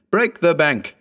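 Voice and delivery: high, eager shout of the command; ecstatic cry. A narrator's reading. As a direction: urge him on in delight. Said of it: "snapping his fingers in ecstasy".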